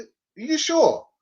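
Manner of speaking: slow, high, doubtful wife voice; imitating wife. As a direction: drag out a worried question. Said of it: "'Cause, uh".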